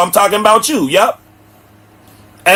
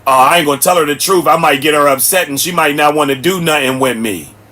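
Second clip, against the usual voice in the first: mocking scared man; 4 semitones lower than usual. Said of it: "that's what men do with y'all".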